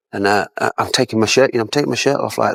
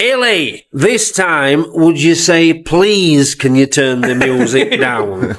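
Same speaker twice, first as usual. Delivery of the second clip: laughing retold order; 5 semitones higher, much slower than usual.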